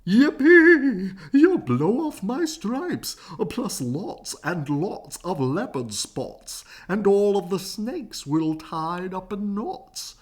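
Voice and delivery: loud, high yell; zebra yelling. A narrator's reading. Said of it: "The zebra yelled".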